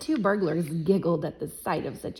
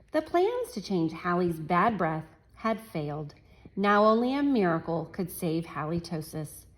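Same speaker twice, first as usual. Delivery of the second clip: story reading. A narrator's reading. Reads picture book to class.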